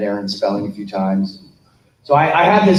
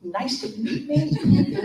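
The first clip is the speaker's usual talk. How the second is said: slow, much higher, laughing disbelief; stunned disbelief; 13 semitones higher, 4 dB quieter, slower than usual. Retold or imitated. Actor echoing the producer who forgot him, incredulous. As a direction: repeat it back, incredulous and amused. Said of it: "I just had this, like".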